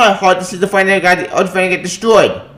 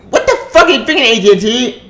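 laughing exasperation; 6 semitones higher than usual. Real, not acted.

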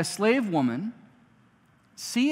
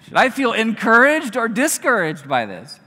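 laughing question; 6 semitones higher, 8 dB louder than usual. Pretend. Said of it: "it's like".

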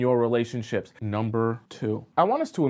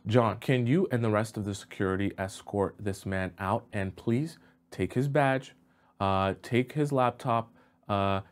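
softer, restrained voice giving orders; lightly voiced boss; 4 semitones lower, 4 dB quieter than usual. Boss having security escort a worker out, quietly businesslike. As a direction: quietly instruct security, a touch of cool authority.

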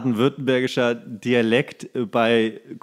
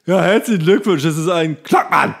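loud, bright mock announcement of the birth; mock midwife; 5 semitones higher, 7 dB louder than usual. Playing a midwife in the delivery room, mock announcement. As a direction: congratulate the parents like a hammed-up midwife. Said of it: "Schön im Kreissaal".

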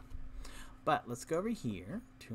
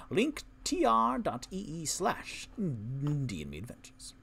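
lightly voiced character, slightly raised; a hint of a bardic character announcing; Tipsy's voice; 3 semitones higher than usual. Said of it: "I haven't done Tipsy's voice in a while".

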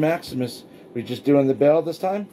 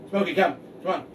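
calling from far away; 5 semitones higher, faster than usual. Real, not acted. Calling dog from distance.

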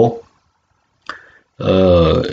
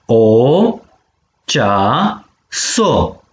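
syllable by syllable; much slower than usual. Shown as a demonstration. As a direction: sound out cea - so with pauses. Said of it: "So de silabe si". (pe silabe: cea, so)

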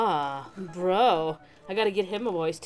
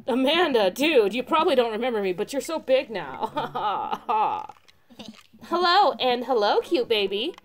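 chill surfer, happy reunion; surfer dude voice; 3 semitones higher than usual. Acted. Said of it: "the surfer dude voice has gotta stay".

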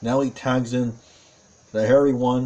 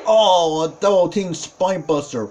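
excited play-by-play; 3 semitones higher than usual. Real, not acted. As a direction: burst out as the big slam lands. Calling the match's finishing move.

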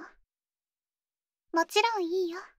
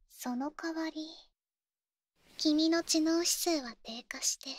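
whisper. Acted. 恐ろしい事実を囁く.

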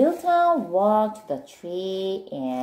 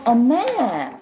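excited discovery; 4 semitones higher, 5 dB louder than usual. Acted. Milton discovers the map.

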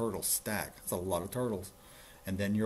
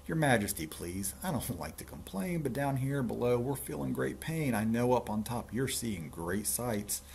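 mildly pained, raised voice of a little turtle; a touch of strained complaint; groaning plea; 3 semitones higher than usual. Acted. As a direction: plead politely from under the pile. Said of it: "groaned Mac".

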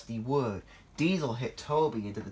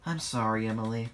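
sighing. Acted. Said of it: "sighed Thomas".

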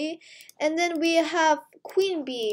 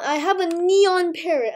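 laughing; 4 semitones higher, 4 dB louder than usual. Real, not acted. Overjoyed at the parrot.

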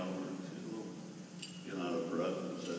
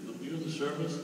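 lightly voiced boy, rising question; patient kid asks again; boy rephrasing; 9 semitones higher, 3 dB louder than usual. Boy clarifies his question to old man, lightly voiced.

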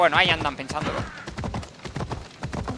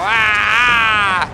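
strained effort shout; battle yell; 7 dB louder than usual. Real, not acted. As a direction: let out a war cry. Fighting enemies in combat.

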